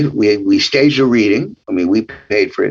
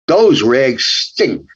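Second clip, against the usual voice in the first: put-on slow, drawn-out light Brooklyn accent; much slower than usual. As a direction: drag the words out in a mild Brooklyn accent. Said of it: "that's my mom".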